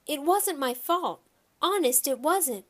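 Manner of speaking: high, pleading protest; mildly distressed girlish wail; crying out. Acted. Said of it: "Shyla cried".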